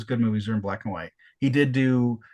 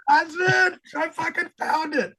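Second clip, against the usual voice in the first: higher, thrilled voice reliving a record find. Retold or imitated. Reliving finding the rare record.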